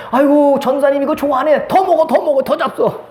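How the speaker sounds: insistent host. Retold or imitated.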